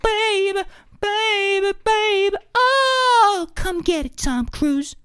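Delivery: high squeaky taunting voice; hammed-up high pop-singer challenge; mock pop singer. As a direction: tease Tom Cruise in a whiny teen voice. Mock pop singer singing then taunting.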